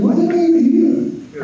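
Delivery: high, baffled self-questioning; squeaky disbelief at the absurdity; high-pitched puzzled aside; bewildered mock question. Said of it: "I was like".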